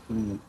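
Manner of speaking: উ as a held "oo"; letter U as "oo". Shown as a demonstration. Teacher showing students the letter U, held "oo". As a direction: hold উ as a pure "oo", no y before it. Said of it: "ইউর উচ্চারণ always উ হয়".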